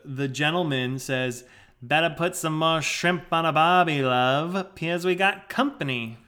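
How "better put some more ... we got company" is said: put-on Aussie backyard bloke; Australian accent. Man at his barbecue to his love, Australian accent. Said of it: "In his Australian accent".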